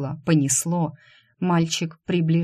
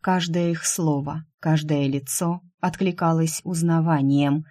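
usual speaking voice

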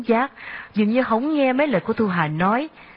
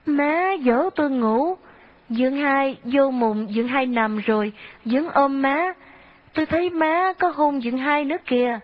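put-on small boy telling; 6 semitones higher than usual. Father pushes small boy to tell.

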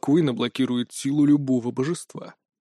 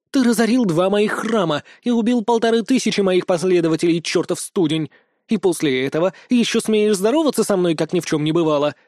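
raised snarling accusation; growling fury; 4 semitones higher than usual. Acted. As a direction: make him pay with every word. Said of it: "прорычала Лина".

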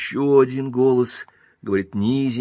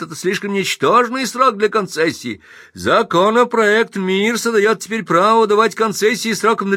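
loud oration; 12 semitones higher, 5 dB louder than usual. Acted. Pinsky orating to crowd.

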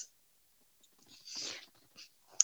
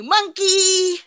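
higher, much louder, squealing monkey; mock squealed monkey; 9 semitones higher, 10 dB louder than usual. Mocking her one-word reply with a shrieked monkey.

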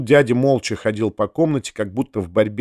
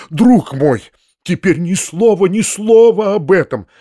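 higher, louder, mildly alarmed plea for silence; hurried, alarmed interruption; 5 semitones higher, 4 dB louder than usual. A narrator's reading. Uncle silences nephew about Nastasya, alarmed interruption. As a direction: cut in urgently, as if a little frightened. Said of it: "торопливо прервал он меня, как будто испугавшись".

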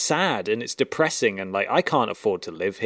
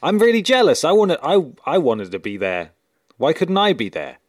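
mock jealous whine, higher and louder; excited; 5 semitones higher, 7 dB louder than usual. Real, not acted. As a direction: playfully wail you missed out. Jealous outburst about missed gig.

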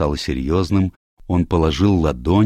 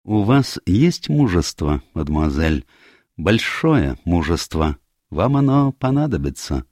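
measured, slightly raised solemn address; lightly voiced Poirot; 2 semitones higher than usual.

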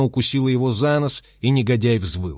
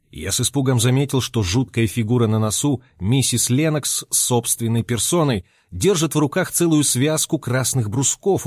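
usual speaking voice

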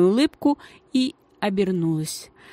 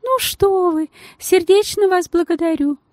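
much higher squeaking thanks; fussy lady squeaking her thanks; squeaky lady; 11 semitones higher, 4 dB louder than usual. A narrator's reading. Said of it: "пискнула дама".

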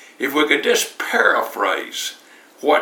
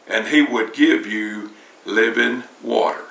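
lower, steady and gentle; unchanged calm tone; 3 semitones lower than usual. Retold or imitated. Jesus replying to the woman, calm and steady. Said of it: "he didn't change his tone".

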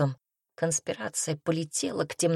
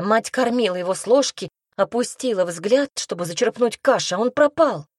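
higher, urgent telling, building at the end; raised girlish voice, pressing the story; exclaiming; 5 semitones higher, 4 dB louder than usual. A narrator's reading. Glenna recounts how the child disappeared, exclaiming. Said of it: "воскликнула Гленна".

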